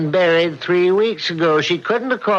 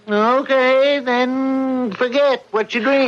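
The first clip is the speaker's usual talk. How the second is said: exasperated; 8 semitones higher, slower than usual. Acted. Husband dismisses wife's story.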